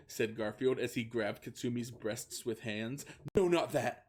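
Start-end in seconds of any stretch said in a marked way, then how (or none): 3.4-4.1 flustered. Acted. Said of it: "said Katsumi with blushing".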